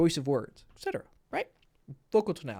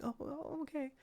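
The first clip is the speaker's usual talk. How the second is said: put-on girly voice; 9 dB quieter than usual. Girl's reply voiced in story.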